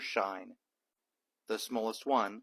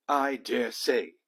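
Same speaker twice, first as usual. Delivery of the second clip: pompous lord; 5 dB louder than usual. Acted. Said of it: "said Lord Cuckoo-Face".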